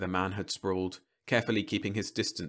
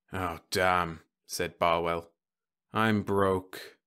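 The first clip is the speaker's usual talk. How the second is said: put-on drunk man; much slower than usual. Drunk Barwell broke.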